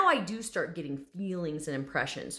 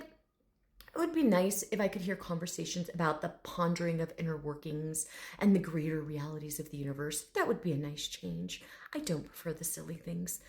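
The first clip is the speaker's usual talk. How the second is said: softer, lightly lofty intellectual; hint of a dignified scholar; proper gentleman; 3 semitones lower, 5 dB quieter than usual. Dragon requesting deeper conversation, quietly refined. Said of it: "this very proper gentleman".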